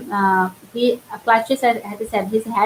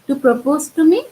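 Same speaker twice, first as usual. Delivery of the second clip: shocked; 5 semitones higher than usual. Acted. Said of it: "falls into an easy chair and wails".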